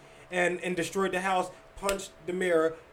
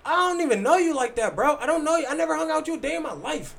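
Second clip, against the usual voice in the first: heated retold rant; 6 semitones higher than usual. Telling the friend off after the fight, in a heated, higher voice. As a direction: firmly set him straight, voice raised. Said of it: "refresh his memory, like".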